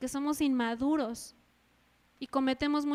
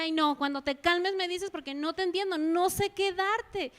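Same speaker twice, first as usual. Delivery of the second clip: exasperated mother; 4 semitones higher than usual. Retold or imitated. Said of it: "Y yo les decía".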